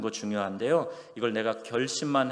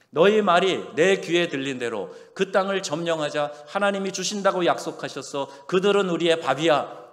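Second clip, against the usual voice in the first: higher and louder, confident; rally the people to take the land; bold proclamation; 6 semitones higher, 7 dB louder than usual. Acted. Preacher voicing spies urging conquest, loud and bold.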